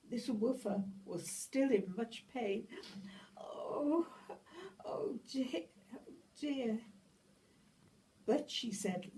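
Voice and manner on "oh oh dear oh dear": whispered "oh dear" in dismay; anxious whisper; whispered worry. A narrator's reading. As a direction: breathe it out, fretting. Worried sigh over hurt dog.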